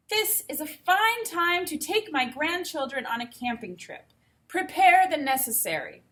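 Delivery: a grand princess giving orders; regal princess. Acted. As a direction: order your wazir about.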